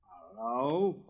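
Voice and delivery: cry out. Acted. Boy spotting the rocket, calling out. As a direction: call out to catch attention. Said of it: "he cried".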